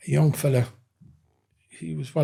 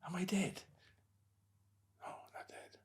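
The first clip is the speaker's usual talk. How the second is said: soft, much quieter question and answer; whispered self-talk; 4 semitones higher, 21 dB quieter than usual. Retold or imitated. Doorman talking to himself on the ground, in a hushed voice. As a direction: quietly ask yourself if you're dead.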